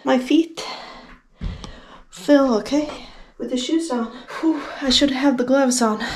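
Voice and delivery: gasping through the cold burn; in ice cold water. Real, not acted. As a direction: voice tight from freezing water. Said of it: "so the burning on my legs".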